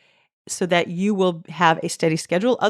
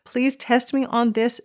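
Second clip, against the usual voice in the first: pleading God; 4 semitones higher than usual. Retold or imitated. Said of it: "There's, like, a pleading by God".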